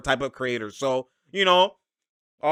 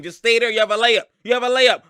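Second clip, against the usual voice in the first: urging teammate; 7 semitones higher, 5 dB louder than usual. Retold or imitated. Coaching a teammate.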